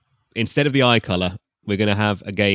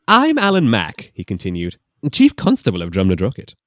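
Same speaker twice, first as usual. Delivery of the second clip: Scottish constable; 2 semitones higher, 7 dB louder than usual. Acted. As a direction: introduce himself like a hammy Scot.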